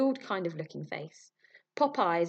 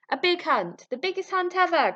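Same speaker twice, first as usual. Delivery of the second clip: put-on loud, higher drunken shout; drunken cry; 11 semitones higher, 7 dB louder than usual. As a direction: crow it out like tipsy hunters. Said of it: "cried the drunken hunters".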